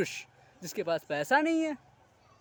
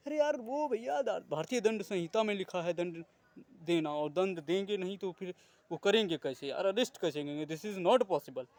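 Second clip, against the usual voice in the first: mock know-it-all. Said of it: "जानते हो क्या डायलॉग मारते हैं".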